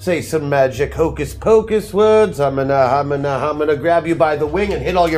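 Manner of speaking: hammed-up villain casting a spell; theatrical evil sorcerer taunting a foe; Harzul. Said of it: "you find yourself acquiring his mannerisms".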